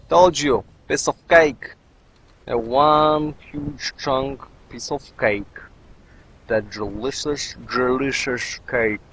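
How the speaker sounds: slow, drawn-out silly voice; playful gloating, stretched out oddly; odd put-on voice. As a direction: savour the words in a lightly goofy voice. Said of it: "Why am I speaking like this?".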